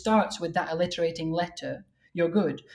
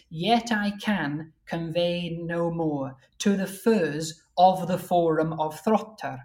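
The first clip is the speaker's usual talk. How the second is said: slow, measured reading of verse; verse recital; slower than usual. Shown as a demonstration. Translator reading out his English version, measured recital. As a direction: recite the translated line with deliberate weight.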